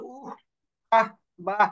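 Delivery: lovers' interjection. Shown as a demonstration. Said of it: "এরকম করে অনেক কথা বলে".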